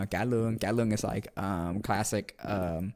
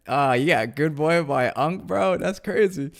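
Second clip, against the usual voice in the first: loud, high, excited outburst; amazed; 5 semitones higher, 7 dB louder, slower than usual. Real, not acted. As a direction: react like you can't believe it. Amazed reaction to chat.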